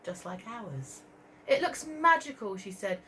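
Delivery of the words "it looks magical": Katie's voice. Acted. Katie voiced in picture-book reading.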